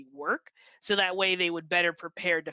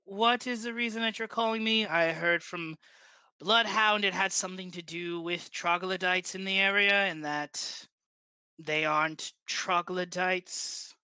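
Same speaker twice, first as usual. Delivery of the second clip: Armentine Ward. Acted. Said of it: "a very heavy Ondarian accent".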